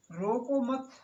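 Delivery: group रोको with मत, then break; pause after मत. Shown as a demonstration. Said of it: "अगर मैंने यहाँ पर कॉमा लगा दिया". ("रोको मत" को एक साथ ज़ोर से बोलकर मत के बाद विराम)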